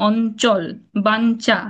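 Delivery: অঞ্চল, বাঞ্চা with ঞ said as n; n sound before ch. Shown as a demonstration. Teacher listing examples, n sound in অঞ্চল, বাঞ্চা. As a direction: say "on-chol, ban-cha" for অঞ্চল, বাঞ্চা. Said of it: "সেটা উচ্চারণ নয়ের মতো হয়".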